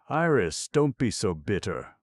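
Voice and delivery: high, loud rebuke, snapping at her; sharp snap. A narrator's reading. Hilary snaps at Iris for sounding bitter, loud and high. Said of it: "snapped Hilary".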